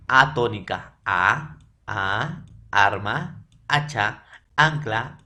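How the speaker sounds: arma, hacha, ancla with the opening A leaned on; teacher drilling the stressed A sound; stressed first A. Shown as a demonstration. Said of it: "Una sílaba tónica".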